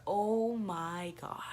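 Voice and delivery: slow breathless whisper; stunned whisper. Retold or imitated. Staring at her tooth on the phone, a slow whisper. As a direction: barely breathe the words in shock.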